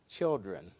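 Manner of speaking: put-on low, soft, tender Children; tender word. Jesus calling to his disciples from the shore, soft and tender. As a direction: say it gently like a loving teacher. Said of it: "you know what he says".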